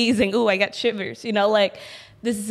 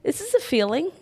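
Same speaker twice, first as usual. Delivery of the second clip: self pep talk; 6 semitones higher than usual. Acted. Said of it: "give yourself a pep talk and be like".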